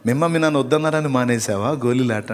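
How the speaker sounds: asks it through a mocking laugh; half-laughing mock question; laughing mockery. Shown as a demonstration. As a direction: giggle at the silly question. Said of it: "కొంచెం నవ్వి చూపించు".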